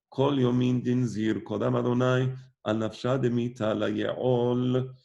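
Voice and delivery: slow, chanted scripture reading; cantillated verse reading. Acted. Teacher chants the Pasuk and Targum for the class, slow. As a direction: intone the verse like Torah reading.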